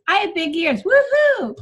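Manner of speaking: bright cheer, woohoo shooting up high; cheerful woohoo. Shown as a demonstration. Comic coach demos the joke, with a high whoop. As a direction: celebrate the big ears with a whoop. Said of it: "I would take out".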